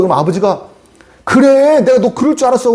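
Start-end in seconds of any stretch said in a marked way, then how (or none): 1.2-2.7 high-pitched mock outburst at a son; angry father. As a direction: play an exasperated dad, pitched way up. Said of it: "막 두들겨 팹니까".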